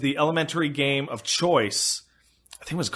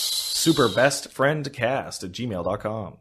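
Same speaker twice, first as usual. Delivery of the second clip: "Superbestfriendcast at gmail dot com" said slowly and carefully; slow, clear repeat; 5 semitones lower, slower than usual. Shown as a demonstration. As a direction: spell out the address slowly so listeners catch it. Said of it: "send it to superbestfriendcast".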